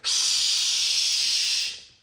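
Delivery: whispered shh from somewhere; shush. Acted. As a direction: hiss a hush at them. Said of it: "said a voice".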